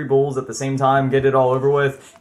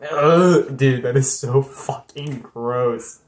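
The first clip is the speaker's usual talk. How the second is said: loud ugh, then slow revulsion; revolted, drawn-out emphasis; grossed out; 3 dB louder, much slower than usual. Real, not acted. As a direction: spell out the disgust slowly. Revolted by imagined eyeball.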